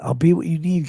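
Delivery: unvoiced teasing whisper. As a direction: breathe it to chat like a promise. Whispered to chat.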